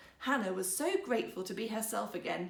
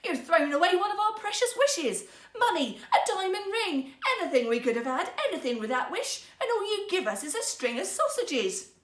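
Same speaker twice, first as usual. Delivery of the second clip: higher, much louder, furious shouting; furious tirade; 8 semitones higher, 7 dB louder than usual. A narrator's reading. Wife berating husband for wasted wish, furious. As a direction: unleash a flood of anger. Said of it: "her flood of angry words".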